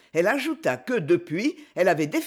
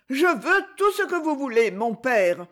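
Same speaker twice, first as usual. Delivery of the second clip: put-on high, eager boy's exclamation; higher naive boy, eager; eager cry; 6 semitones higher than usual. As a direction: blurt it out eagerly. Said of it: "s'écria Torchonnet".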